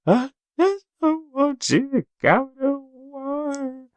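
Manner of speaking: put-on high, slow little-girl plea; little daughter's voice. Dad retelling his daughter begging him not to go, in a high little-girl voice. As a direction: mimic your tearful little girl.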